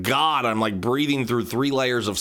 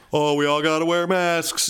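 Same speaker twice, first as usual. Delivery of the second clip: mock mask enthusiast; 5 semitones higher than usual. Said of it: "I was not one of the early".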